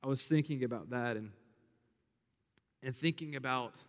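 preacher confides in the congregation, whispering; hushed aside. Real, not acted. Confessional turn in sermon.

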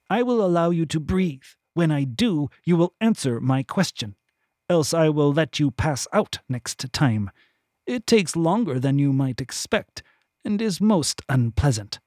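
a hint of a cold, menacing captor; cold interrogator. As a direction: calmly threaten the bound prisoner. Thine threatens the captive.

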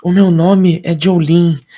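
slow character voice saying Jolene; slow, deliberate intro as the character. Acted. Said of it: "O nome dela é Jolene".

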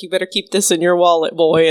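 put-on light German accent, gruff advice; a hint of an old German man. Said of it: "in his little German accent".

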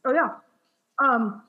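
talking through a mouthful of cracker; words round a bite of cracker; chewing while talking. Real, not acted. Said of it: "I'm chewing a cracker".

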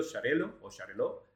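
Sharelo or Shareló, read as one seamless word; soft sh opening on "Sharelo", said as a single word; run together as one word. Shown as a demonstration. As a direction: say "Sharelo o Shareló" with no break at the hyphen. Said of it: "pero se pronuncia todo seguido".

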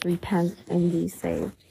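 slow, distant solemn command; solemn voice of the Lord. A narrator's reading. The Lord of the churches warning the reader, slow and solemn. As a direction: intone it like a voice from afar. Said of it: "The Lord of the churches says".

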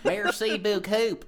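put-on French accent. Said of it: "channeled my inner Ratatouille".

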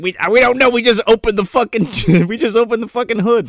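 high, loud put-on protest; mock fluster. Retelling the car breakdown, high loud mock fluster. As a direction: imitate flustered helplessness, breaking into a laugh. Acting out flustered stranded driver.

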